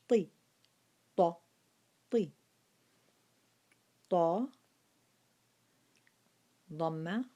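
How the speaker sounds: طي and طو said full and heavy; weight every syllable: تا, طي, طو; strong letter drill. Shown as a demonstration. Teacher reciting the heavy letter to the class: طي طو. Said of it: "And that's حرف مفخم".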